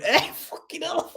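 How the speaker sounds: high, slowed, mock-startled exclamation; retold shock. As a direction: act out being caught off guard at the door.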